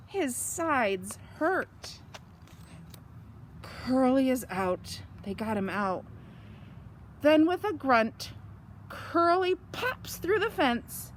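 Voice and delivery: lively, sing-song storybook reading; bright storytime read-aloud; reading to children. A narrator's reading. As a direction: read it out like it's story time for little ones. Reads picture book to children.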